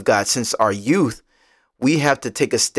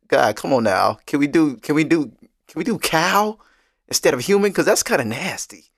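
mock plea, pitch climbing to a squeamish appeal; pleading prophet; 4 semitones higher than usual. Host voices the prophet bargaining with God, playful pleading. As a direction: haggle with God in playful protest.

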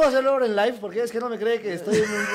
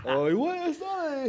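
ominous reading; 8 semitones higher, slower than usual. Shown as a demonstration. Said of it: "se puede ir hacia el lado bueno o hacia el lado malo".

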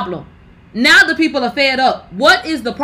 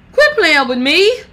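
loud slow repeat; 4 semitones higher, 4 dB louder than usual. Real, not acted. Repeats, louder and slower.

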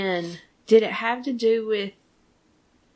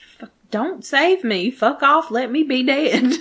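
slow, louder, exasperated Sam; hammed-up plea to be left dead; mock Sam yell; 5 semitones higher, 5 dB louder, slower than usual. Recapping Sam refusing rescue, slow mock yell. Sam acting out death wish.

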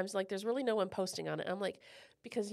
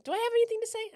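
self-mocking; 12 semitones higher, 7 dB louder, faster than usual. Real, not acted. Self-mocking doubt about the podcast.

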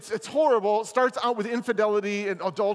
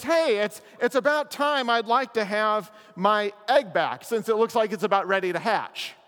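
higher, louder, breezy lazy bird; Maisie returning; 3 semitones higher, 5 dB louder than usual. Acted. Lazy bird returns to demand her egg, higher and louder. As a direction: toss it off like she never left. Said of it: "And she basically says".

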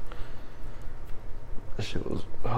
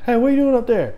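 high-pitched mock holler; imitated calling out; 12 semitones higher, faster than usual. Man calling up to the balcony, imitated holler. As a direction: call up to someone on a balcony.

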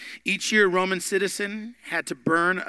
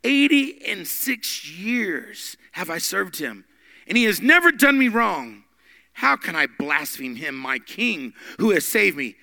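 slow, firm declaration with a bit more force; a hint of the defiant old martyr, lightly voiced; bold old bishop; 2 semitones higher, 4 dB louder, slower than usual. Polycarp answering the ruler, bold. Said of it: "Polycarp answered".

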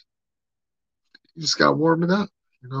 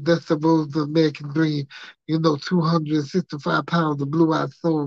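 Dusty Rhodes impression. Doing Dusty Rhodes for his British coworker, lightly lisped and drawled. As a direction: ham up the Dusty lisp and call everyone baby. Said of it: "doing the whole voice with the lisp".

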